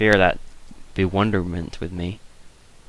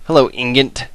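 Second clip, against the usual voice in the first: lightly put-on Slavic accent, louder and higher; mock Slavic greeting; 6 semitones higher, 5 dB louder than usual. Slavic accent as he greets an imagined man named Ingot. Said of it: "like a Slavic name".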